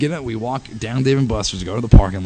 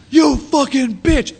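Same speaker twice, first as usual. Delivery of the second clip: slow, much higher and louder furious yell; drawn-out high angry cry; furious curse; 6 dB louder, much slower than usual. Retold or imitated. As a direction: spit it out in outrage. Necklace ripped off, he curses.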